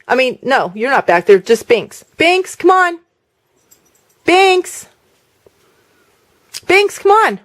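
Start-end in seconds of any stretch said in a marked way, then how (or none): 2.2-7.4 high coaxing call to the cat; calling pets. Real, not acted. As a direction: coax the cat out, pitched up.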